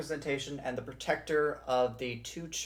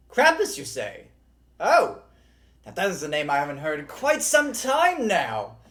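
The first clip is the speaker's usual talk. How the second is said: loud, higher hearty innkeeper; tavern keeper; 3 semitones higher, 8 dB louder than usual. Acted. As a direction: call the tavern together, booming. Tavern keeper calls to friends.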